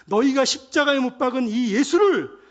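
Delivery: loud, high, emphatic preaching; bold proclamation. Acted. Preacher acting Peter addressing the gathered crowd, forceful proclamation. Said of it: "이렇게 선포한단 말이에요".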